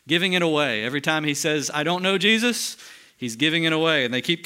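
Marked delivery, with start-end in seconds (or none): 1.7-2.8 a raised, higher, insistent denial; mock denial. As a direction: throw out Peter's protest loud and high. Peter's denial acted out.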